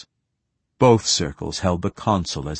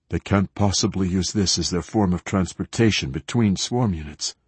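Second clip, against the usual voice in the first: shaky voice. Acted. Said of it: "had said in a shaky voice".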